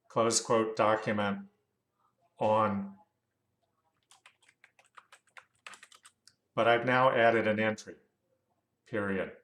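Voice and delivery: measured dictation with spoken punctuation; dictating. Real, not acted. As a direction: dictate it to the software, saying the punctuation. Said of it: "gotta remember about that voice recognition".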